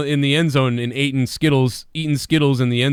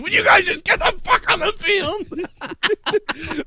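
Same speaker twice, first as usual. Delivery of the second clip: Belichick; much slower than usual. Acted. Acted Belichick ordering players out.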